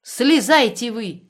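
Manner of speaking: loud, slow call from below; shouting down. A narrator's reading. Women calling up to a man on the rocks, loud slow shout. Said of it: "кричали снизу".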